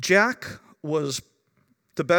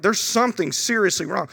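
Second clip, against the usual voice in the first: raised, urgent worry; alarmed; 5 semitones higher, 3 dB louder than usual. Retold or imitated. Parent alarmed by the baby's crying, urgent concern. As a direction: pitch it up, voice a worried parent.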